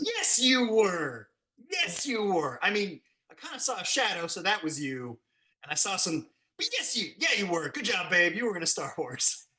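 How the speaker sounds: lightly voiced, indulgent soothing; hint of a patronizing wife. His wife humoring him after the scene, lightly indulgent soothing. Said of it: "And she goes".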